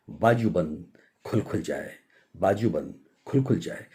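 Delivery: hushed, repeated lyric without singing; mock singer's refrain. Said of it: "और गाओगे".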